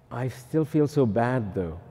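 slow, mildly mock-mournful; lightly acted guilty moping; whiny penitent. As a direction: dwell on the bad feeling, drawn out. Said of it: "do not confess your feelings".

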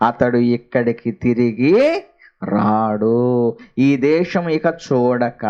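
slow, measured verse reading with drawn-out endings; scripture reading. Acted. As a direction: read the verse out solemnly, stretching phrase ends. Reads scripture verse aloud.

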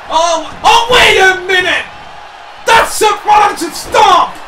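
excited commentator shout, pitched high; overexcited. Real, not acted. Commentator misnaming a move mid-match, overexcited. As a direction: get carried away calling the move. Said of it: "I'm getting too excited".

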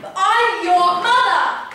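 loud, drawn-out protest; indignant mother. Acted. Mother demanding her son's secret, indignant. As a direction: pull rank on your child, loudly.

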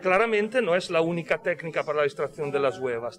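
ordinary talk

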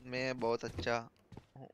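imitating slow reply. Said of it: "वो बोला ना".

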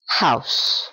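house barely breathed out; soft ending. Shown as a demonstration. Teacher showing a softened final word, barely voiced. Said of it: "Suaviza aquí".

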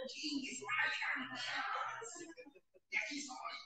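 whispered under the breath. Real, not acted. Telling the meeting, a hushed whisper. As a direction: breathe it out as a secret.

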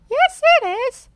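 high, loud retort; arguing Peppa Pig. A narrator's reading. Peppa argues the goal counts, high and loud. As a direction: argue back.

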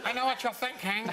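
bad Clint Eastwood voice; Dirty Harry impression. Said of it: "one of the worst impressions ever".

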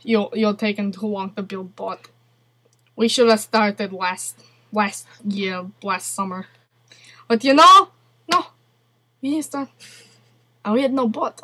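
put-on Russian accent. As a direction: grumble in a mock Russian accent. Keeps up Russian character.

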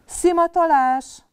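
papa bunny finally calling the sniffing game; shouted command. Acted. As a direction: stretch the word like a game announcement. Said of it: "kiáltotta végre Nyuszi papa".

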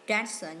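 dancer stressed on the first syllable, DAN-cer. Shown as a demonstration. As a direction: put the weight on DAN in dancer. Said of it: "nhấn âm một".

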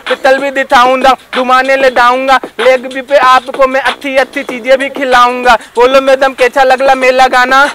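a comic lisping rapper chatting up madam. Acted. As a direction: lisp every s and r like a cute totla guy. (तोतला रैपर)

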